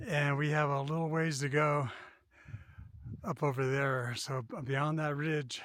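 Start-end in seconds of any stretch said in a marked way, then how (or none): 0.1-4.1 winded from the climb; out of breath. Real, not acted. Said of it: "catching our breath".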